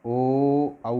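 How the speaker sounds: ओ then औ drawn out from the throat with rounded lips; vowel demo. Shown as a demonstration. Teacher modelling ओ and औ for students, lips rounded. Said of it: "बोल के देख लो".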